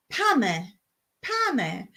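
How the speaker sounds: pame with the weight on pa; stress on pa. Shown as a demonstration. Teaching viewers the Cypriot word, pame stressed on pa. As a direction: hit the pa in pame. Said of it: "The emphasis on the pa".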